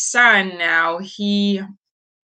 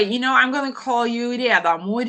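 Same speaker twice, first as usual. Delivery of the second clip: laughing; 5 semitones higher than usual. Real, not acted. Laughing while renaming a listener.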